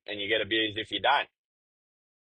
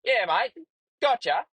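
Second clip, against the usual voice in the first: much higher, mocking radio reply; cocky trucker on the radio; 11 semitones higher than usual. Another trucker answering on the radio, cocky. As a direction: toss it off like a smug stranger. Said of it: "next minute I hear".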